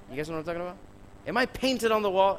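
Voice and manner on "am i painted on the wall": louder, higher indignant mother, stress on I; hammed-up offended mom scolding the kids; mock indignant "Am I painted on the wall?" with I pushed up; Caribbean mom attitude. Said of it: "in her very crazy Caribbean".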